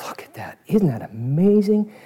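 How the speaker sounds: admiring crowd member. Acted. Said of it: "The crowd said".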